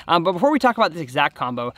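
ordinary talk, nothing marked

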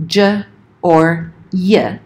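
"j" and "y" said as sounds, juh and yuh; bare letter sounds. Shown as a demonstration. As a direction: say "j or y" as consonant sounds, not letter names. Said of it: "g being pronounced as".

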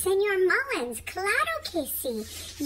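a high, eager cat answering the neighbor; Señorita Whiskers voice. Acted. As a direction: pitch way up and answer the phone brightly. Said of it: "Y yo le respondo".

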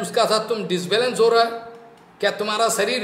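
acted scolding, rising at the ends; sarcastic King Rahugana. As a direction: taunt the bearer with pointed questions. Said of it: "रुहुगन कितना बोलना चाहता".

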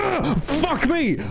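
high, drawn-out startled cry; startled yelp. Real, not acted. Gamer jolted by a jump scare, high slow yelp.

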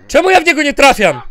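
high, loud complaint; loud gamer frustration; frustrated outburst. Real, not acted. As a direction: cry out in exasperation at missing. Frustrated at missing the enemy.

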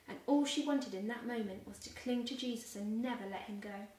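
put-on gentle storybook reading for children; expressive picture-book narration; story narration. A narrator's reading. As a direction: read it like a bedtime Bible story. Reads Bible story to children.

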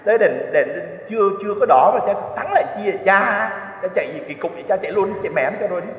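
hammed-up exasperated yelling at the priest; retold outcry. Rider behind yells at the priest for braking early, mock outcry. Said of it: "Xong nó la làng lên".

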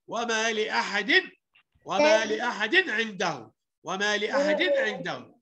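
measured وما لأحد عنده with a crisp unheld n; clear izhar. Shown as a demonstration. Teacher drilling izhar for pupils, clear n in لأحد. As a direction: sound لأحد's tanween briefly before ع. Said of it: "فبقول إيه".

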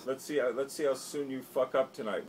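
a lightly voiced taunting action star; hammed-up bully customer; mocking bully voice. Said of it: "he goes".

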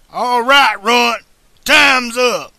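high, loud outlaw shout from the street; calling out. A narrator's reading. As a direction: holler a taunt across the street. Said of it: "Tannen's voice calling from".

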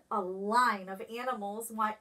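ordinary delivery

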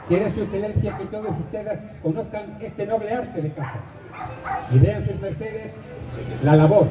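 booming formal royal decree; town crier proclamation. Acted. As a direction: proclaim it like a medieval herald. Formal medieval royal proclamation read aloud.

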